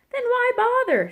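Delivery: high, loud disbelief; dismissive question. A narrator's reading. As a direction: toss it back, baffled. Thistle scorns games without winning.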